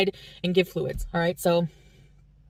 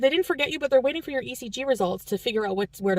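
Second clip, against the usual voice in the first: put-on French Canadian accent; 5 semitones higher than usual. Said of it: "try to imitate it".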